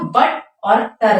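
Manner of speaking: बटर broken slowly into बट and टर; slow syllable breakdown, बट, then टर; split into syllables. Shown as a demonstration. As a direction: give बट and टर as two separate beats. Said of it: "तो यहाँ पे दो syllable हो गया".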